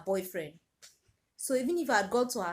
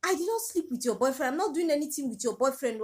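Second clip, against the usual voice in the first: desperate pleading; 5 semitones higher, 4 dB louder than usual. Retold or imitated. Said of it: "I started begging this girl".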